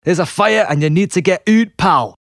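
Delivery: a gruff bouncer's call through a door, pitched high; security guard voice. Retold or imitated. Guard pounding on the toilet door, gruff and pushy. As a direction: play the aggressive guard ordering him out.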